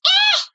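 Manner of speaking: loud, high weary "ah"; loud play-acted tired groan. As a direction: let out a big mock yawn. Acting someone weary after long sleep.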